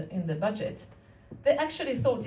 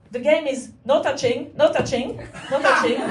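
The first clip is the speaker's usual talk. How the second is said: building emphasis; 3 semitones higher, 6 dB louder than usual. Acted. Comic build of repeated rule.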